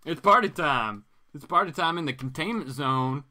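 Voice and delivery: loud party whoop; hammed-up excitement. Man getting excited at the villainess's invitation, loud. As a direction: sell the party line. Acted man's excited line.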